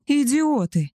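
high furious roar. Acted. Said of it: "взревел Габриэль". (яростный рёв, гораздо выше)

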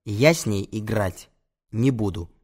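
slow, weighted refusal; measured hard no; firm, hard. Acted. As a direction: refuse word by word, without raising the voice. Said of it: "жёстко говорю я".

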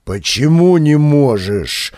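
outraged, pressing for an answer; a slow, loud indignant question. Acted. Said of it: "возмутился оператор".

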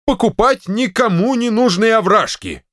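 high exasperated exclamation; exclaiming. Acted. General to wife, exclaiming in disbelief. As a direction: cry out in disbelief. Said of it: "воскликнул генерал".

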